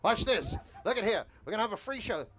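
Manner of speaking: sideshow barker. Shown as a demonstration. Sideshow talker building a tip on Coney Island, barking. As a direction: reel the passersby in with a brisk barker call. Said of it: "I'm gonna build a tip like I would normally".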